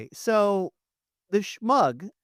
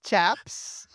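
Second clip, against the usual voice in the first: hammed-up British "'Ello, chaps"; jokey British accent, drawn out with a pause; 4 semitones higher, 4 dB louder, much slower than usual. Shown as a demonstration. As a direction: greet them in a mock British accent. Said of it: "here's my British accent".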